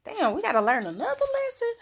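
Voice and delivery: a hammed-up tired whine; mock weary complaint. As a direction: play the fed-up student griping about another lesson. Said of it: "don't look at it like".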